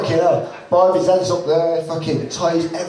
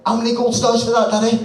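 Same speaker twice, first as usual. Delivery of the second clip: little voice; 6 semitones higher than usual. Retold or imitated. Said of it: "this little voice go".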